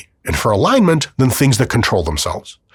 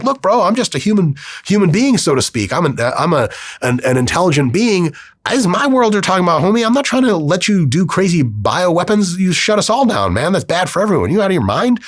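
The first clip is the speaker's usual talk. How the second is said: higher, laid-back bro AI; AI talking down its owner, breezy higher bro voice; chill AI bro voice; 7 semitones higher than usual. Pretend. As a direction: play the AI as a casual homie scolding you. AI explains why it refused.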